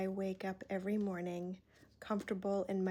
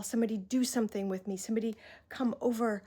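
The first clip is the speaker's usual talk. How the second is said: rushed, louder pleading for help; frantic call; 2 semitones higher, 4 dB louder, much faster than usual. Retold or imitated. Imitating a desperate person calling out for help, fast and louder. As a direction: rattle it off, begging someone to come. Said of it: "this frantic call".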